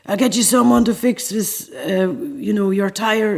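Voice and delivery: lightly put-on French accent, playing the tour manager. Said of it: "excuse my French accent".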